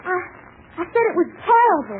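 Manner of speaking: tearful outburst. Acted. Daughter insults father's darts.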